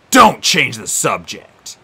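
slow, loud growl. Acted. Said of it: "the ghost growled".

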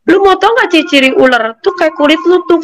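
mild imitation of a snake jibe; mocking taunt.

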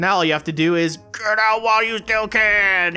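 lightly creepy teacher voice; creepy Baldi voice. Pretend. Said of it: "in creepy Baldi voice".

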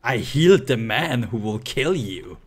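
lightly voiced medic, with a punched word; medic impression. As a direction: deliver it as a dramatic medic line, hitting HEALED. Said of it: "best ever medic impre".

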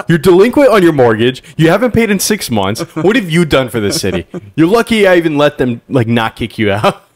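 high, loud scolding; scolding mayor. Pretend. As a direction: berate the reporter.

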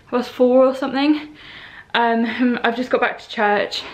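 out of breath from the stairs; panting a little between words. Real, not acted. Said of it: "sorry, I'm out of breath".

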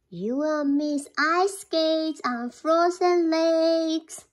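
high, slow little mouse voice; eager mouse. Acted. Mouse tempting bear.

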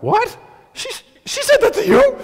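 high, loud disbelief; incredulous brothers. Retold or imitated. Brothers at the table hearing the news, high disbelief. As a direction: gasp it out like you can't believe it.

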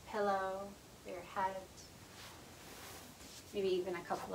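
calm, unhurried yoga nidra guidance with long pauses; guided meditation. Acted. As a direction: gently guide them into rest, leaving space between phrases.

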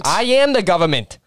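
put-on lightly copied New Jersey accent. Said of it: "I want you to do New Jersey".

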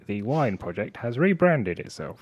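slow, deliberate nerdy reading; nerd voice. Real, not acted. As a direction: read it out like a careful nerd. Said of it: "does that nerd voice work well for you".

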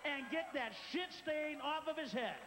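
pushy pitchman yell, building; mock infomercial shouting. Pitchman yelling at viewers to grab the guy. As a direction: sell it like a frantic TV ad.

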